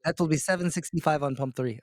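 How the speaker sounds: lightly put-on Indian accent. Shown as a demonstration. Coach playing a gas station clerk, light Indian accent. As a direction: try an Indian accent on a stock clerk line. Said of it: "That's Indian?".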